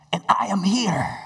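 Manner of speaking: "I am here" pressed out firmly; emphatic assurance. Retold or imitated. Jesus reassuring disciples, emphatic "I am here". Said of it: "he had the emphasis".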